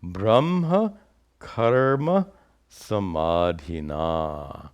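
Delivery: measured Sanskrit recitation, pausing after each word; verse recitation. Shown as a demonstration. Teacher quoting the verse's last line, slow measured recitation. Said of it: "Last line".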